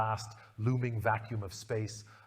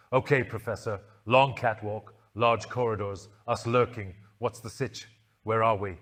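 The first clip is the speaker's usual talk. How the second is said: a hint of a brisk young companion; light, louder girl voice; lightly voiced Ace; 5 dB louder than usual.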